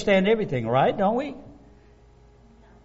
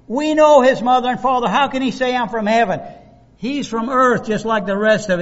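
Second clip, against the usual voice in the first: indignant scoffing; 6 semitones higher, 5 dB louder than usual. Retold or imitated. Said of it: "That's little Joey".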